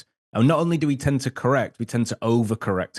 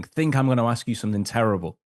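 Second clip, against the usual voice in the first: usual speaking voice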